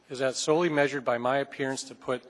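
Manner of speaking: slow down so the chair catches every word; said slowly. Shown as a demonstration. Council member to the legal counsel, saying it slowly. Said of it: "and I'll say it slowly".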